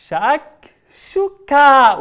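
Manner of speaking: شكشوكة stretched out long, loud and high. Shown as a demonstration. Host shouting the magic word with the children, stretched out. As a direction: shout شكشوكة slowly for the kids. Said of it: "بصوت أعلى".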